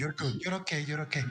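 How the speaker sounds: soft, hushed reassurance; calm them down in little quiet phrases; soothing. Acted. Calming the unnerved guest.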